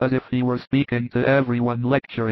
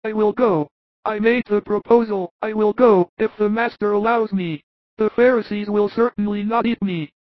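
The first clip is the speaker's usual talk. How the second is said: high, earnest apostle voice; Thomas's voice; 9 semitones higher than usual. Acted. Thomas proposing a plan to the apostles, high, steady voice. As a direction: voice Thomas much higher, calmly practical. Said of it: "says Thomas".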